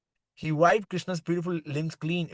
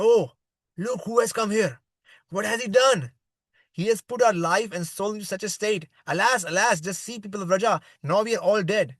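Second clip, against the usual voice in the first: raised, pleading cry of grief, held mild; gopis' lament; 4 semitones higher, 4 dB louder than usual. Retold or imitated. Gopis over fainted Krishna, high anguished lament. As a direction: wail over him as the grieving gopis, a touch overdone. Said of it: "Lamenting like this in many ways".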